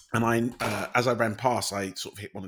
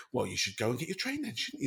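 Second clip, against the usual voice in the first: indignant; 6 dB quieter than usual. Retold or imitated. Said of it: "so indignantly".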